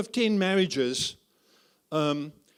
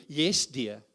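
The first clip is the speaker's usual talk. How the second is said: meek husband; 6 semitones lower than usual. Shown as a demonstration. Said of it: "I'll show you".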